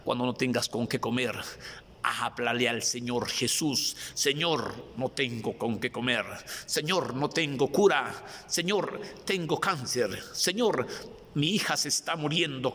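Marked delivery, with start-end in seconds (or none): 4.1-12.7 crying out. Acted. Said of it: "como le gritó Jairo".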